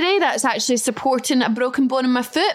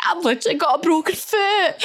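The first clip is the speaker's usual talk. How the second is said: high pitiful voice; milk the broken foot for sympathy; sympathy plea; 6 semitones higher than usual. Retold or imitated. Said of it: "play the sympathy votes".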